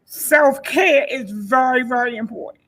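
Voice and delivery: holding back tears while urging self-care; tearful. Real, not acted. Tearful, speaking to her listeners about self-care. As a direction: voice thick with real tears, pushing through. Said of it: "I'm shedding tears right now".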